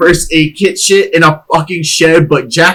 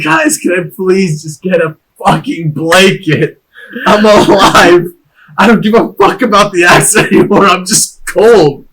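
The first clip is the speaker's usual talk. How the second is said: mock pleading; 3 semitones higher than usual. Freezing naked patient begging rescuers for a blanket, mock pleading. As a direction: plead wearily for some warmth.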